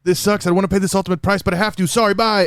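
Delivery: high-pitched comic complaining voice; Michael Pena recap. Acted. Thanos recapping the snap for laughs, Michael Pena recap. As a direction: play a reluctant villain in a high, silly voice. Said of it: "see Thanos do a Michael Pena recap".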